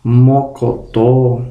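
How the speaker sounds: slow "mocotó", leaning on the final "tó"; "mocotó" as a careful stress example; stress on last syllable. Shown as a demonstration. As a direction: stretch out "mocotó" to its stressed ending. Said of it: "a última sílaba vai ser a sílaba tônica".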